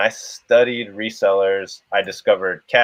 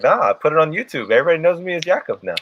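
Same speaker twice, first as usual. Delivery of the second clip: quoting Jake; 7 semitones higher, much faster than usual. Retold or imitated. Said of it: "He's like".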